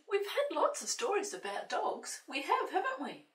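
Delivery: high, loud puppet voice; squeaky little puppet friend, eager; Peter the puppet. Pretend. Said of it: "Peter said".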